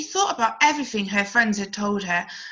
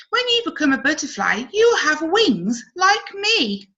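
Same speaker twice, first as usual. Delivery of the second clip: higher, excited ladybird, slowing on the end; a ladybird boasting about her wings; 6 semitones higher, 3 dB louder than usual. Acted. Ladybird speaks to caterpillar.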